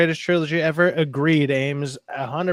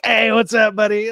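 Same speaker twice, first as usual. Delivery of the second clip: higher, chummy hail; mock friendly greeting; 4 semitones higher, 4 dB louder than usual. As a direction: greet an imagined best buddy. Acting out instant best friends greeting.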